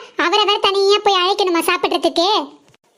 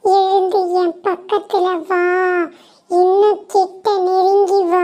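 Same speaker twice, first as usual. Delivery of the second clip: slow, eerie far-off call; ghostly summons; slower than usual. Acted. Ghost luring the sleeping girl, slow eerie call. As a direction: lure her closer like a ghost.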